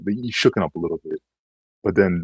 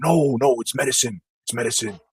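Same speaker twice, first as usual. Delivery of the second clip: higher, louder mock protest; mocking defensive whine; 5 semitones higher, 4 dB louder than usual. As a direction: parody a user insisting it's medicine. Mocking users defending drugs.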